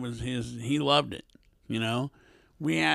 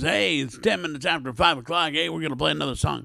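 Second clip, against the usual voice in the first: radio DJ voice; 3 semitones higher, faster than usual. Retold or imitated. Imitating a fake radio DJ.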